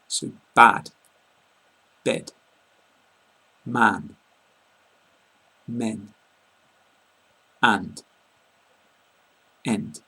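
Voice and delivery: bad bed man men an end, each word alone; minimal pairs demo. Shown as a demonstration. Teacher modelling word pairs for learners, slow and clear. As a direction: read each word carefully with a pause. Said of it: "you want to say it like a or e".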